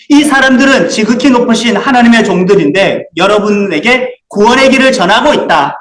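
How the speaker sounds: a touch of a loud cry; crying out loudly. Acted. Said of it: "큰 소리로".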